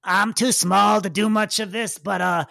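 lightly voiced kid; a hint of a small kid's voice. Bug kid asks hero for help, lightly voiced kid. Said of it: "the kid's like".

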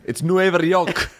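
Nueva York said slow in a hammed-up ugly American accent. Mimicking a brash American tourist, ugly American accent, slow. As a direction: lay on a crude American accent. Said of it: "try to have an ugly American accent".

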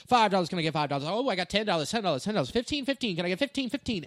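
rapid auction chant; auctioneer voice. Retold or imitated. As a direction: rattle off bids like an auctioneer. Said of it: "I brought out my auctioneer voice".

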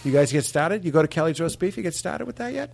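casual Boston accent questions. Shown as a demonstration. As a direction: coach riffing in a Boston accent. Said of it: "let's practice our Boston accent".

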